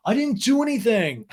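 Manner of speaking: high-pitched, hammed-up bewilderment; mock innocent protest. Recapper acting Schwartz protesting innocence, mock bewildered.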